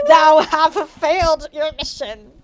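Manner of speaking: slow, lightly menacing villain read; a hint of a sinister overlord; mock evil villain. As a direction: Darth Vader threatening Ebony, mock evil. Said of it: "said evilly in his raspy voice".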